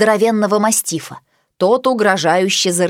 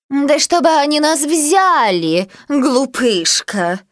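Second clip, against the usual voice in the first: poodle voice; 5 semitones higher, slower than usual. A narrator's reading. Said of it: "сказала Пуделиха".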